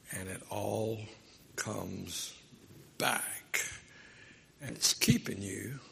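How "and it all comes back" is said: softer and lower, "comes" sinking, "back" falling; soft, slow echo. Acted. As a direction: bring the point home quietly. Sermon's point echoing the punchline.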